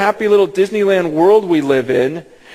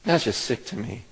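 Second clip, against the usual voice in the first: God's voice fading to hush; 5 semitones lower, 6 dB quieter than usual. Retold or imitated. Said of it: "He goes".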